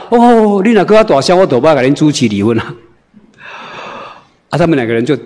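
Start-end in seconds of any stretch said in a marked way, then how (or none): 0.1-2.7 getting louder. Retold or imitated. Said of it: "我愈讲愈大声啦".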